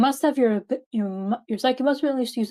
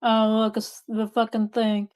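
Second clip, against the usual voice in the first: sarcastic; slower than usual. Real, not acted. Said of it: "You sound so excited to be here".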